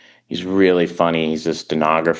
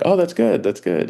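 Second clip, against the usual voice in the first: Malkovich; 11 semitones higher than usual. Retold or imitated. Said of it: "He was like".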